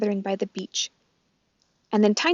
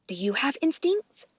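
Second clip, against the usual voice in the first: gosling voice; 5 semitones higher than usual. Acted. The gosling asks.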